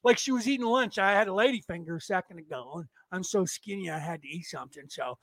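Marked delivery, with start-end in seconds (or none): none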